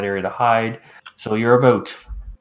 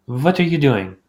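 grumpy neighbor voice; 4 semitones higher, slower than usual. Acted. Jacques pokes head out window.

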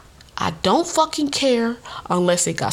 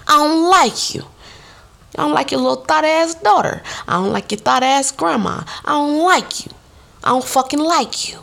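high, louder blunt dismissal; telling her off; 7 semitones higher, 3 dB louder than usual. Retold or imitated. Confronting the stepmom's friend, high and louder. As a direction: throw it in her face. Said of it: "I be telling her".

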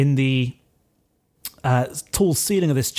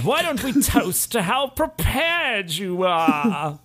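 slow, honeyed toast offer; oily toast; 6 semitones higher, slower than usual. Acted. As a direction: lure her with a slow toast. Hector proposes a toast.

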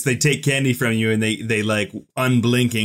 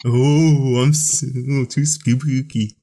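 slow sinister villain voice; spooky evil voice; slower than usual. Pretend. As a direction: lean into a creepy villain. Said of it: "What's this Joker voice you're doing?".

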